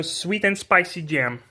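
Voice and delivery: slow, careful American English accent; English product name with an American accent. Shown as a demonstration. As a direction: stretch it out in a put-on American accent. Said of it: "on fait avec l'accent".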